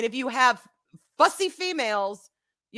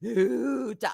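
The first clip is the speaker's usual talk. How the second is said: long, drawn-out owl hoot; imitated owl hoot. Shown as a demonstration. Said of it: "had a very deep, distinctive".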